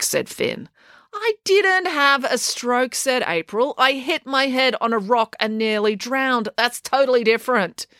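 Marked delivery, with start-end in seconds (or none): 1.1-7.9 much higher, slowed protest; girl protesting, higher and slow; indignant girl. Acted. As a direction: correct him indignantly. April objects.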